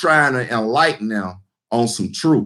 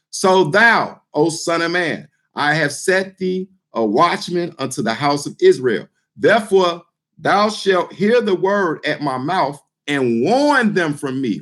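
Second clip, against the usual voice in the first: solemn reading from the pulpit; scripture reading. Acted. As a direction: read the verse out like holy writ. Reads scripture aloud in church.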